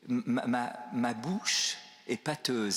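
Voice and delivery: slow, stumbling start on "ma"; imitated speech impediment. Moses excusing himself to God, imitated halting speech. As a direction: stammer lightly, as if tongue-tied. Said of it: "j'ai un problème d'élocution".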